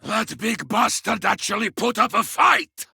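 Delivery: impressed, battle-heated yell; exultant shout. Acted. Warrior over a slain Carnifex, exultant shout. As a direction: shout it in triumph.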